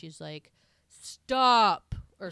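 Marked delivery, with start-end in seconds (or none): 0.9-1.9 loud, high, drawn-out command; mock mom shout. Playing mom who pinches the helicopter, hammed-up shout. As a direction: imitate a giant mother calling a halt. Voicing mother halting helicopter.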